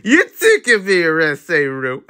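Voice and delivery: slow, drawn-out teasing; laughing while teasing; sly teasing imitation; teasing quote. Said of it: "She's like".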